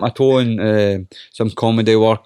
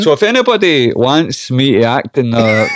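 laughing plea; 4 dB louder, slower than usual. Real, not acted. Jokey casting plea, laughing.

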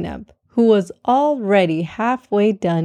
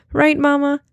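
proudly; 7 semitones higher than usual. A narrator's reading. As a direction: ask it with a proud grin. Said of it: "she asked proudly".

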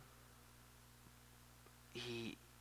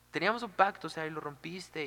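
high, louder burst of reproach, easing off; angry Cupid; 4 semitones higher, 4 dB louder than usual. Retold or imitated. Cupid repeats his grievance to Psique, indignant and higher-pitched. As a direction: accuse them of breaking the deal. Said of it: "así súper enojado".

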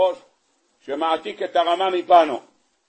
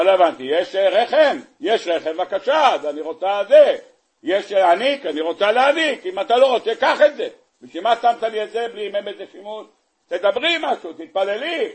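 hammed-up pleading Hannah; 2 semitones higher than usual. Hannah's prayer acted out.

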